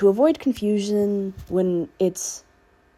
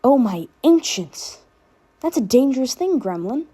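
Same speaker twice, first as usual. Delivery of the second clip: mock horror; 6 semitones higher, 4 dB louder than usual. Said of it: "Danny replied with a laugh".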